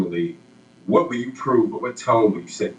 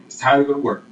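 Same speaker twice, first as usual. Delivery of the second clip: pitched up, punchy promo read; high energy tagline; 5 semitones higher, 3 dB louder, faster than usual. Shown as a demonstration. Interviewer demoing a tagline for the player, with high energy. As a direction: sell it like a hype line. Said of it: "as much energy you can".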